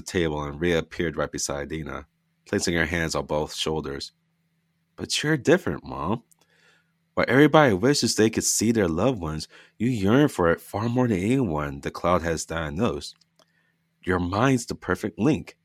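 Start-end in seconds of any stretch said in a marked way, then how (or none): 5.0-15.6 lightly voiced daughter. Lydia voiced by narrator.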